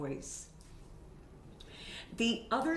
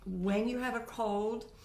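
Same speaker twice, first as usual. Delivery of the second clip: normal talking voice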